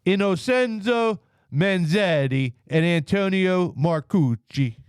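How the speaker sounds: slow, hammed-up Italian accent on the names; mock Italian accent. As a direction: roll the Italian names out slowly, like an Italian. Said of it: "I like your racist ass accent".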